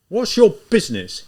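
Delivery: loud, high bark of a demand; bawling. Acted. Officer bawling at ragged Raskolnikov, loud and high. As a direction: bawl it at the ragged visitor. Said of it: "he bawled".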